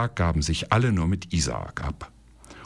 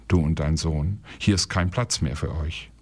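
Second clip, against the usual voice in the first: sad; 2 semitones lower than usual. Acted. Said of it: "sagte er traurig".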